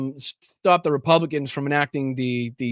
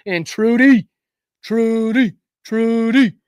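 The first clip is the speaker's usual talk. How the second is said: calling out; 8 semitones higher, 7 dB louder, much slower than usual. Real, not acted. Calling out a donor's name.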